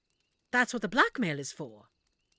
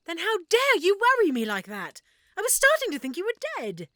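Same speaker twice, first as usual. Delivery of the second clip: mock scolding; 8 semitones higher, 6 dB louder than usual. Scolding friend for worrying her.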